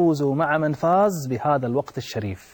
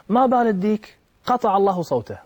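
raised pitch, exasperated outburst; mounting regret; 7 semitones higher than usual. Retold or imitated. Said, grieving his missed night prayer, curses the rooster in exasperation. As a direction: let the frustration lift the voice higher. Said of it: "فلما زادت حسرته".

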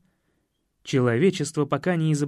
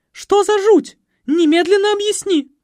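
very high, loud demanding shriek; outraged mother; 10 dB louder than usual. Acted. Маменька требует объяснений — пронзительный возмущённый голос. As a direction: demand an explanation at full pitch. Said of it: "голос маменьки".

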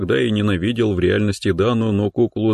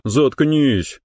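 hissed through teeth; 6 semitones higher than usual. Acted. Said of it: "процедил я".

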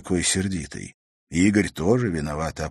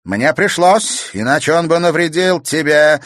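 spiteful; 9 semitones higher, 8 dB louder than usual. Acted. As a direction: spit it out with malice. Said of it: "злобно сказала Евдокия".

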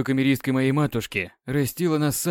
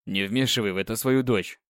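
грозно; 3 semitones lower than usual. Acted. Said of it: "грозно сказал Люциан".

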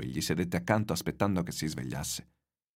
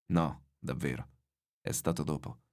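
put-on weary old man; 4 semitones lower, 4 dB quieter than usual. Exhausted old man answers boy.

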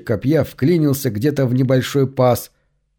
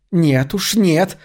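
refusal rising higher on the last word; mild exclamation; 4 semitones higher, much slower than usual. A narrator's reading. Cassandra refuses Plum's call, mild exclamation. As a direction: exclaim it without shouting. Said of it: "восклицает она".

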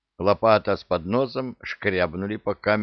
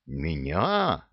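ordinary delivery

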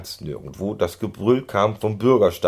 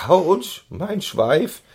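high, loud yelp of complaint; complaining; 12 semitones higher, 5 dB louder, much slower than usual. A narrator's reading. Pony scolding his neighbour after the jolt, high yelp. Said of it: "schimpfte Keks neben ihm".

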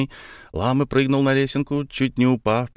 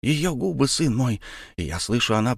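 ordinary delivery, nothing marked

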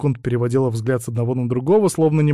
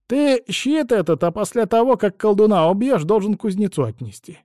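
calming down; 9 semitones higher, 4 dB louder than usual. A narrator's reading. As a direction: let the crone settle down. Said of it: "успокаиваясь".

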